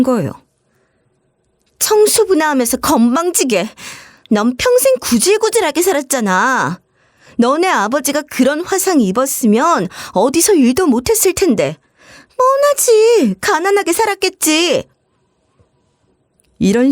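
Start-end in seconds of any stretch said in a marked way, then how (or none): 1.8-11.8 higher, contemptuous voice; sister-in-law mocking her poor family, contemptuous; insulting sneer. 12.4-14.8 very high, very slow mocking drawl; sister-in-law taunting about poverty, slow mocking drawl; drawn-out sneer.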